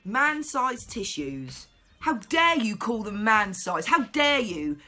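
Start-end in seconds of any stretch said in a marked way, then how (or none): 2.0-4.8 mock-offended how dare you; mock outrage. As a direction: play the offended activist, overdone.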